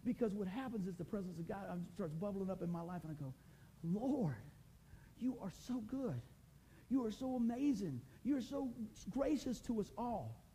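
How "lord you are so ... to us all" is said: voice going higher. Real, not acted. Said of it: "my voice starts going higher".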